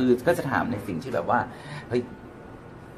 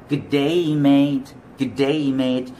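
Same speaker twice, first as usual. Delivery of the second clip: drawn-out Australian "Good day, mate"; Australian accent; 4 semitones higher, 4 dB louder, much slower than usual. Shown as a demonstration. Teacher demoing an Australian greeting in Australian accent. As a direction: lean into an Australian twang. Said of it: "Australian accent".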